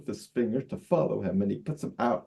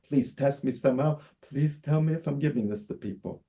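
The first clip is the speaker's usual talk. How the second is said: mild, higher-pitched desperate plea; begging; 3 semitones higher than usual. Acted. Begging Emma to be tested, pleading. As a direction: plead urgently for an answer. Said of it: "I begged her".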